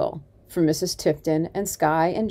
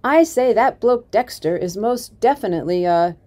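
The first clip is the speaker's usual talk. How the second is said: put-on Mick Hart's accent; 4 semitones higher, 5 dB louder than usual. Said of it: "Jane put on Mick Hart's thick accent".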